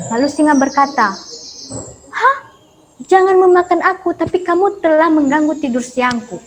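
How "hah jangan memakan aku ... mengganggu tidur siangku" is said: a hint of an irritated lion, pitched up; lion scolds the mouse for waking him, lightly voiced; angry lion. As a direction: scoff at the mouse as king of the jungle.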